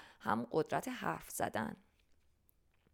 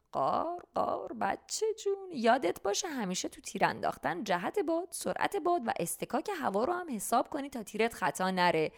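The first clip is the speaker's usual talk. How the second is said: laughing crow voice. Acted. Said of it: "قار قار خندید و گفت".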